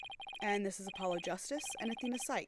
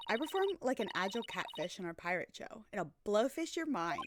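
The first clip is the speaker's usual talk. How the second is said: put-on Valley Girl voice. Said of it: "That's not a good voice for her".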